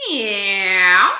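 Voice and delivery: very loud, twangy cat voice; cat meow. Shown as a demonstration. Coach demonstrating twang to singers, cat meow. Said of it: "So meow like a cat".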